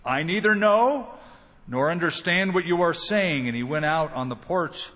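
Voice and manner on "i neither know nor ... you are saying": higher, slightly louder protest of ignorance; mild denial. Acted. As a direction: deny it with a raised, emphatic voice. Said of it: "But he denied it, saying".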